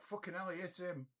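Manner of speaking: stunned admiring fan at a fight; amazed exclamation. Retold or imitated. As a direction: marvel at the punch like a bystander. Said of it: "It's like".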